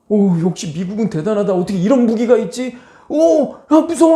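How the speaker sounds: rising into a high, loud mock gasp of awe and fear; mock awed soldiers. Imagined Chinese soldiers' awed reaction. (점점 높아지는 과장된 감탄과 두려움)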